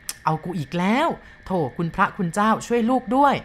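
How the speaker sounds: a mild quavering prayer for help; trembling voice. Acted. Driver sees the ghost again and begs heaven, mildly trembling. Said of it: "ร้องออกด้วยเสียงสั่นพร่า".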